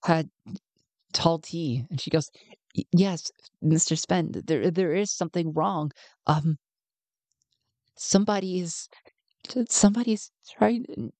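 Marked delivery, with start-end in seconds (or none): 2.8-11.1 fighting tears, voice climbing; holding back tears. Acted. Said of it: "she can't fight back the tears".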